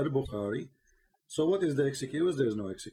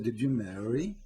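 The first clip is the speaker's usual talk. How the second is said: drawn-out slow mocking question; slow, pointed mock of the prophet's question; 5 semitones lower, much slower than usual. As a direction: stretch each word out like a mocking interrogation. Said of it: "He said".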